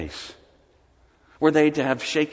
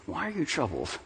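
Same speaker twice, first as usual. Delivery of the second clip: gentle; 3 semitones lower, 7 dB quieter than usual. Acted. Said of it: "my first question wouldn't be".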